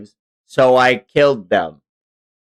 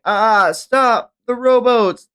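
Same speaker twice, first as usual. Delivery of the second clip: frightened scream; 12 semitones higher, 5 dB louder, slower than usual. Acted. Slaves screaming.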